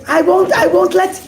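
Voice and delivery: a captain wheedling for a look; pleading captain. Acted. Captain begs the rabbi to see the diamond, pleading. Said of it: "and he says".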